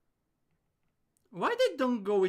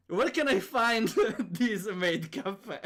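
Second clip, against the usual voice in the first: laughing; 4 semitones higher, 4 dB louder, slower than usual. Real, not acted. Laughing while asking.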